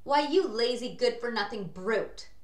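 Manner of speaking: loud, angry scolding aunt; shouted. A narrator's reading. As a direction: shout the insult at the boy. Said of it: "Aunt Spiker shouted".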